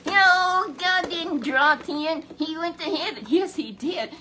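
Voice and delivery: high, loud fervent denial; fervent rebuttal. Real, not acted. Preacher rebuts the sons of the prophets, loud fervent cry. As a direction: fire back high and loud, preaching hard.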